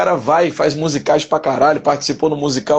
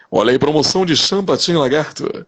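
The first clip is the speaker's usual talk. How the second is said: booming street-seller pitch; market promoter voice; 2 semitones lower than usual. Shown as a demonstration. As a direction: sell it like a shop barker. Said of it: "vou falar de um promotor de mercado".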